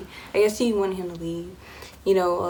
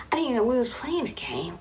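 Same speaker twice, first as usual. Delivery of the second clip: whisper; 4 semitones higher than usual. Real, not acted. Aside about being naive.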